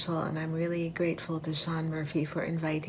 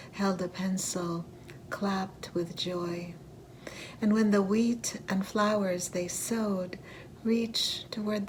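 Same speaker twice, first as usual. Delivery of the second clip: measured poetry recital with deliberate pauses; poem reading. Acted. Poet reading a war elegy to an audience, measured recital. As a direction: recite line by line, letting each image stand. Reads own poem aloud.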